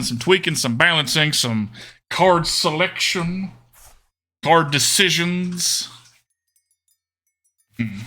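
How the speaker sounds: put-on Southern-style accent; put-on game accent. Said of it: "I'm still doing the accent".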